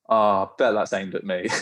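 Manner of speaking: laughing through a low thought; sheepish laugh. Retold or imitated. Recruit realising the shout is for him, laughing sheepishly. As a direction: chuckle at your own guilt.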